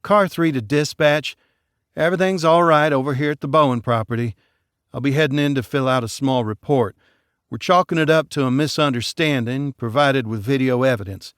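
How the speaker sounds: lightly voiced deputy calling dispatch; brisk report over the mic; radio call. Deputy reporting in to dispatch, brisk. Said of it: "grabbed the mic".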